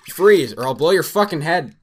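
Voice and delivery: slow, high, bellowed threat; bellowing. Acted. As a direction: bellow it at the room. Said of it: "Sam bellowed".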